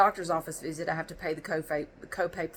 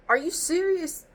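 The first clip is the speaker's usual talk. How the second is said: disbelief; 10 semitones higher than usual. Retold or imitated. Her retold disbelief at receptionist.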